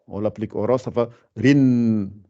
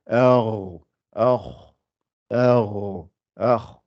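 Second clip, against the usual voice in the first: throat sound demo; much slower than usual. Shown as a demonstration. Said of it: "et le kha et le ghain".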